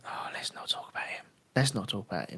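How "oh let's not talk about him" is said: hushed whisper aside. Real, not acted. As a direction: whisper it as if unspeakable. Aside about Sven-Goran Eriksson.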